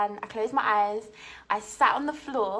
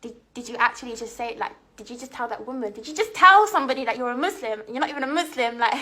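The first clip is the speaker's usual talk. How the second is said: incredulous inner voice; much faster than usual. Retold or imitated. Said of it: "in my head I'm thinking".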